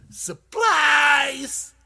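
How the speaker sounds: sudden high shriek of "Supplies!"; screaming. Retold or imitated. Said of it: "jumps out and scream".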